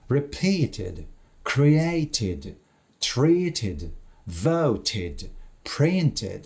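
repeated, created, treated, voted, printed with a full final "id" syllable; slow model words, "id" ending on repeated, created, treated, voted, printed; ending read as "id". Shown as a demonstration. Teacher repeats examples after T, extra "id" syllable on repeated, created, treated, voted, printed. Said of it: "починає читатися як «ід»".

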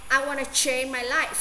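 life ending on a clear f; final sound stressed. Shown as a demonstration. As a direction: let the final f of life ring out. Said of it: "mình sẽ đọc lên".

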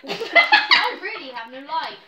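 laughing through the words; giggling as you say it. Real, not acted. Laughing line.

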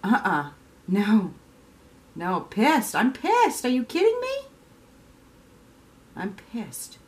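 mock outrage. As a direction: play someone fed up and furious, half-joking. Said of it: "being like".

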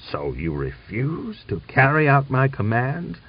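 hoarse, restrained. A narrator's reading. General confronting a refusal of orders, hoarsely. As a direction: strain to restrain the anger. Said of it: "asked hoarsely".

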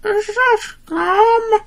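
slow slurred words, numb lips; can't feel your mouth; numb from the dentist. Real, not acted. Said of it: "the anesthesia will wear off soon".

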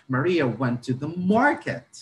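"market" stressed, voice rising on it; teacher stressing "market" with a rising end. Shown as a demonstration. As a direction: hit "market" to answer where she went. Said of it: "I would change my intonation from".

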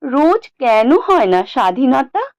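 put-on high, lilting child voice; little boy pleading. A narrator's reading. Small son presses his silent father for an answer, high pleading child. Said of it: "ছোট্ট ছেলেটা বাবার কাছে প্রশ্ন করে".

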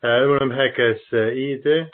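halting Turkish with foreign accent; foreigner broken turkish. Real, not acted. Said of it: "yani Türkçem çok, e, iyi değil".

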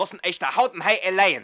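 loud furious outburst; berserk rage. Real, not acted. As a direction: shout it out in rage. Wütender Streit auf der Baustelle. (wütend brüllen)

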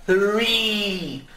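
"Three" slow with a clear th; th sound demo. Shown as a demonstration. A teacher drilling "Three" for students, slow th. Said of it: "treinando esse som do T H".

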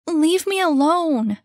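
high and loud, fed up; annoyed rebuff. Acted. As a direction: push the kid away. Annie rebuffs the kid.

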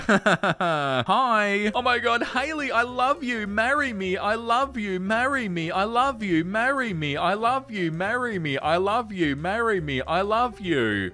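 fading lovesick mock proposal; mock lovesick pleading. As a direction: plead like a smitten stalker, over and over. Reading desperate repeated proposals.

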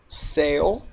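"Sail" with a clear ay vowel, rising; "Sail" held up as an example word; long A example. Shown as a demonstration. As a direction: model "Sail" with a stretched ay. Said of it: "it makes the A sound".

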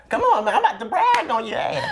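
fast laughing hype; excited laughing. Real, not acted. Hyping up guest, laughing.

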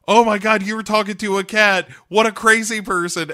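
high, loud mocking girls; hammed-up schoolgirl ridicule; mean girls. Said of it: "And they're like".

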